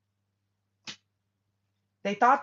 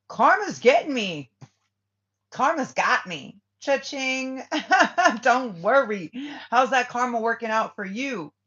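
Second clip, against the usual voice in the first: higher and louder gloating taunt with a laugh; 4 semitones higher, 5 dB louder than usual. Retold or imitated. Reader gloats back at the spiteful ex, high and loud. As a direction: rub it in their face, cackling.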